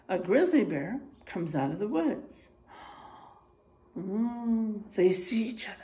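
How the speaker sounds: put-on lively storybook reading for kids; reading to children. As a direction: read the bear facts like a story to the class. Reads picture book to class.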